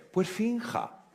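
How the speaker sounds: doctor lightly tells the patient to fake a smile; playful insistence. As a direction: toss it off with a high mock tone.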